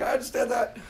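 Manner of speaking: usual speaking voice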